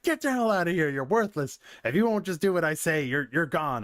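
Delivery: high hammed-up boss yelling; cartoon boss throwing the assistant out, mildly voiced; mock angry boss. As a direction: play the boss firing him, overdone. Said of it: "an imaginary scenario".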